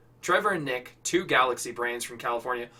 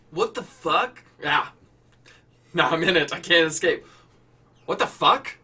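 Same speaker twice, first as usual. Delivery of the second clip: louder, strained cry of pain; pained panic; 4 dB louder than usual. Acted. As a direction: shout through ringing ears. Pained cry after static.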